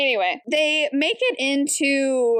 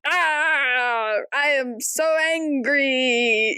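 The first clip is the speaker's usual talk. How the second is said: fake anger; 2 semitones higher, much slower than usual. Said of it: "Say something very loudly so I can pretend".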